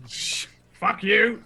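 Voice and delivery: high squeaky laughing fuck you; laughing guard curse. Acted. Fleeing guard curses the prisoner, laughing high. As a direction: blurt it through laughter.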